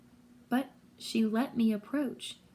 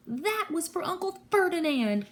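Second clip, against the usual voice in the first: high, defiant yell; pitched-up triumphant retort; yelling back; 7 semitones higher than usual. A narrator's reading. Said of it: "Grover yelled back".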